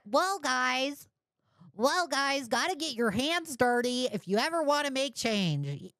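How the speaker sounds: high mocking voice of the justifier; mocking impression. Streamer mocking the admin's justification, high mock voice. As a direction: parody his smug reasoning. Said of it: "Listen to that fucking justification".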